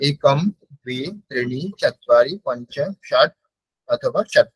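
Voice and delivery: carefully recited Sanskrit numbers, চত্বারি with a lift; teacher demo of counting. Shown as a demonstration. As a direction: recite one by one as a model. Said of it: "সংখ্যা এরকম ভাবে বলতে হবে".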